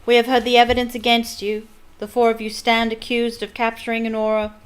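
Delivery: stern judge raising his voice over the room; loud, cold courtroom pronouncement; father drowning out his son with a loud verdict. Acted. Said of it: "speaking more loudly".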